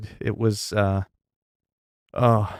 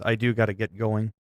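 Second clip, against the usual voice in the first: winded after laughing; breathless from laughing hard; out of breath; 4 dB quieter than usual. Real, not acted. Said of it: "'Cause I wanna catch my breath".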